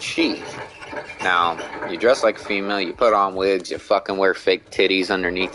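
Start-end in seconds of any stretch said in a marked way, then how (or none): 0.0-0.4 quick snap reaction. Retold or imitated. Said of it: "I said".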